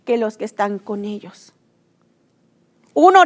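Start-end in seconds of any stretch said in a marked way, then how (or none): 0.1-1.5 calm assurance. Retold or imitated. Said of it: "esa confianza de que Dios también lo estaba protegiendo".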